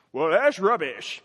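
a hint of a posh British "Well, that's rubbish"; mock old-fashioned British. Preacher mocks the old word rubbish with a light British lilt. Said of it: "no one talks like that".

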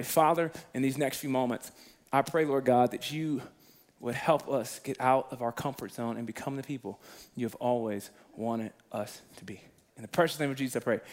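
soft, hushed pastoral prayer; bow your head and pray softly to the Lord; quiet prayer. Acted. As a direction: pastor praying quietly over the congregation.

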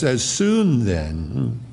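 slow, measured reading of the verse; scripture reading. Acted. Preacher reading the verse aloud to the congregation, slow and solemn. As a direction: lay each word of the text out deliberately.

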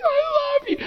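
very high, squealed tearful cry; imitating an overwhelmed child's wail; crying scream. Daughter hugging him as tears come down, imitated crying scream. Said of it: "just crying and screaming".

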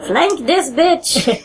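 high, very slow heroic call; mock heroic. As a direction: drag out the battle cry.

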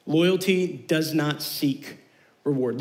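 loyalty stretched out slowly; slow, emphatic restatement. Shown as a demonstration. Youth pastor to students, repeating the point slowly. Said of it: "our second point is loyalty".

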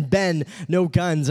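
slow, badly faked Indian accent; lightly imitated Indian dad, words stretched. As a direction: repeat dad's words in a poor Indian accent. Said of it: "laughing at him 'cause of his accent".

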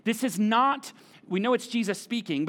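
usual speaking voice

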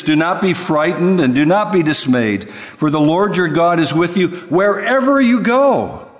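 lifted high and loud, proclaiming; commanding voice of the Lord; booming divine command. Acted. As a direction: thunder it out like God's own charge. God's command quoted in sermon.

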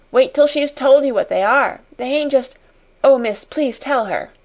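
high, excited pleading; eager appeal. A narrator's reading. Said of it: "appealing to Sara".

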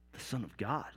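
soft, low, awed repetition; quiet, low reflection; hushed echo. A narrator's reading. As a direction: drop right down and let it sink in. Hushed echo after the accusation.

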